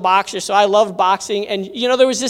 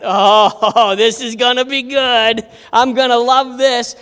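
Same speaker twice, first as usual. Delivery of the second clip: relishing chuckle, savoring what's coming; eager, chuckling delight; gleeful anticipation; 3 dB louder, slower than usual. Retold or imitated. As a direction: gloat happily to yourself. Gleefully anticipating his fight with bully.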